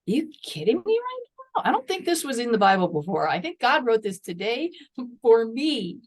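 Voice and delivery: as if she can't believe what she's reading; retelling a stunned reaction to scripture; incredulous disbelief. Retold or imitated. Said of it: "And I'm reading this going".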